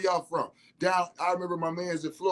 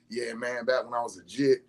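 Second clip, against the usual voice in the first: lightly done Florida talk; 5 semitones lower than usual. Retold or imitated. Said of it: "That's Florida talk all day".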